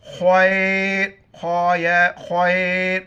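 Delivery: खैर with a thick, rounded ख; slow खैर opening on a heavy kha. Shown as a demonstration. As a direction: draw out खैर, filling the mouth on the ख. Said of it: "खा को मोटा पढ़ेंगे".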